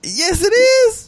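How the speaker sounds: slow, high teasing insist; teasing drawn-out. Real, not acted. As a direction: stretch it out, mock-insistent.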